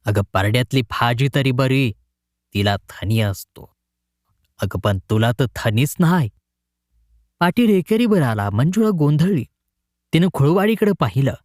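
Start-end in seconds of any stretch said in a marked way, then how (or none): 0.1-6.3 irritated growl. Acted. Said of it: "Patil चिडक्या स्वरात गुरगुरला".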